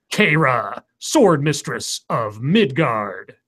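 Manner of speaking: dramatic trailer narrator; movie trailer voice. Acted. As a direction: epic in-a-world announcer read. Reads a fake movie trailer.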